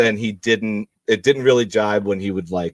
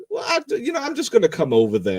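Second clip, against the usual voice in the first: Dotson voice; 12 semitones higher than usual. Pretend. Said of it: "she's like".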